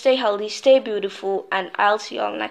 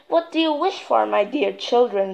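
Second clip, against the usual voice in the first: goddess voice. Acted. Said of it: "she asked".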